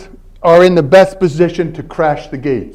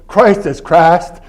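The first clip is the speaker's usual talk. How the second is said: mock Southern accent; slower than usual. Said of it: "The guy I was mimicking ... Southern dialect".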